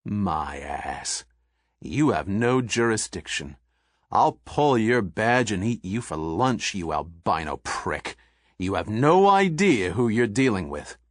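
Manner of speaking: a hint of a gruff, threatening tycoon; lightly voiced bully spitting threats; blustering thug. Bullard threatens the agent.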